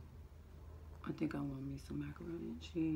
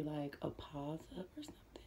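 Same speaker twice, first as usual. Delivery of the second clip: whisper; 2 semitones lower, 7 dB quieter than usual. Real, not acted. Whispered aside.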